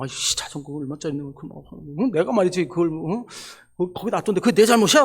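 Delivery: re-enacted muttered griping; angry grumbling. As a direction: grumble to yourself about being blamed. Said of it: "너무 화가 나는 거예요".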